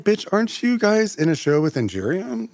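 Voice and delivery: high, sassy incredulous jab. Retold or imitated. Teasing the queens about Angeria, high sassy disbelief. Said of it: "but I'm also like".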